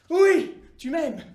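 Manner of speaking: fort et très lent, appuyé; martèle chaque mot; insistance lente. Acted. (Dieu à Abraham, lent et appuyé)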